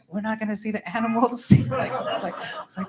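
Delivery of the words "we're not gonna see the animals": high, mock-tearful little kid; hammed-up whiny child voice; crying son. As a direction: imitate a child wailing in disappointment. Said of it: "crying and he's like".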